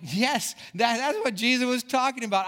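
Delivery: light-bulb moment, voice jumping up; retold joyful aha; excited realization. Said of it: "And I went".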